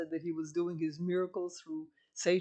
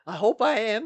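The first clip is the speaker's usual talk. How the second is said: laughing; 3 semitones higher, 8 dB louder than usual. Real, not acted. Laughs at being called crazy.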